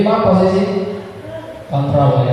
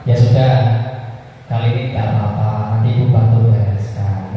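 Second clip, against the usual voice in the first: friendly reassurance; 3 semitones lower than usual. Acted. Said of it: "sebagai teman".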